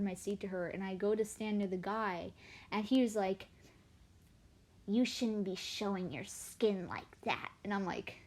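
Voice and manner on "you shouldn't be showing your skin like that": put-on slow, stern old-man voice; disapproving old man. Old man on bus scolding girl about her skin, slowly.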